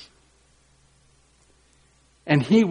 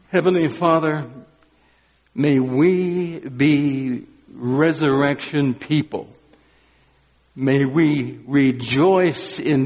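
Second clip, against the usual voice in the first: prayer. Acted. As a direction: pray reverently. Closing prayer.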